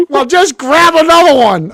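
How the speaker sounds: put-on casual kid. Kid at stand answers.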